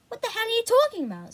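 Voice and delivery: high, fast incredulous snap; exasperated outburst. A narrator's reading. Sister baffled by her brother's wild claim, fast incredulous outburst. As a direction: blurt it out in disbelief.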